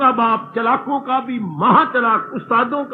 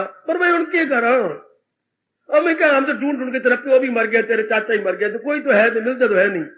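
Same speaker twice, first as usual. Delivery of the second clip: exasperated mother. Retold or imitated. Mother scolding daughter, quoted.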